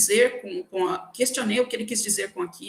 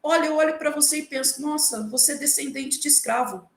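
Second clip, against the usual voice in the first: higher-pitched mock amazement; retold surprise, pitched up; astonished colleague; 5 semitones higher than usual. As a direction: imitate a colleague's startled praise. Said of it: "chegou pra mim e falou assim".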